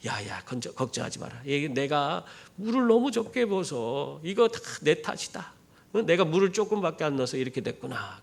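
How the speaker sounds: gently soothe, as a retold mother-in-law; reassuring mother-in-law. Mother-in-law takes the blame to calm daughter-in-law, softly reassuring. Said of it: "시어머니가 하는 소리가".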